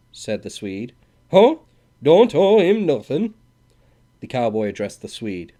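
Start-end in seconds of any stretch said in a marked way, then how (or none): 1.3-3.3 high, loud mocking disbelief; mock surprise. A narrator's reading. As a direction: sneer in fake disbelief.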